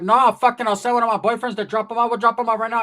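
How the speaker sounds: impatient, acted outburst; irritated aunt. Aunt insisting on dropping the boy off, irritated.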